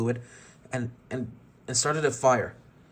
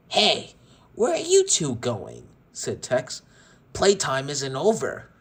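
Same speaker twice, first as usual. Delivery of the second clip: menacing villain; 2 semitones higher, 4 dB louder, slower than usual. Acted. Villain Tex calling fleeing toys.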